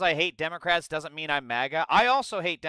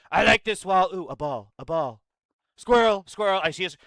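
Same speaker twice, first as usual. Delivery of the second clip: lightly acted, easily sidetracked man, starting higher and louder; distracted Trump; 4 semitones higher, 6 dB louder than usual. Streamer mocks Trump getting sidetracked by a ball, lightly acted distracted voice. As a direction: blurt it like a mock short attention span. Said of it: "his typical A D D self".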